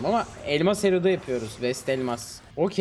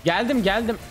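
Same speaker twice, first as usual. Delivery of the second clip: rapid repeated calls, higher pitched; urgent calling out; 4 semitones higher than usual. Real, not acted. Streamer rushing in tells teammate to fire the ulti, urgent. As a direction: call out urgently to your teammate mid-fight.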